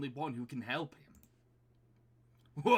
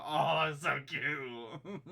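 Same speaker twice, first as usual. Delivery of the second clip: slow, laughing coo; 2 semitones higher, 6 dB louder, much slower than usual. Real, not acted. Cooing over young Edgeworth.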